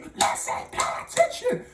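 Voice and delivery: high whispered-out teacher scold; hammed-up strict teacher; mock teacher yell. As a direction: bark at the class, mock strict. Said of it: "hit the table and say".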